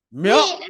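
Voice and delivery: a quick rising cat meow. Shown as a demonstration. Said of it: "I wonder what that would be like".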